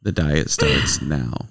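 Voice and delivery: slow, low mock-solemn declaration; deadpan grand vow; quoted movie line. Husband quoting the pig's line, slow mock-solemn. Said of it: "That is such a funny line".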